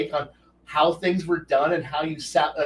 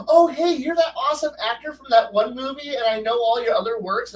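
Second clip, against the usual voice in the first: mock starstruck gush, pitched up; gushing fan; 6 semitones higher than usual. Fan gushing at a famous actor, mock starstruck. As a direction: overdo it like an eager fan. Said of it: "to not go".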